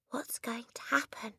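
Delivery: high, breathless whisper; nervous whisper. Acted. Lavender asks her friend in a frightened whisper. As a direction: ask it in a frightened hush. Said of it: "Lavender whispered back".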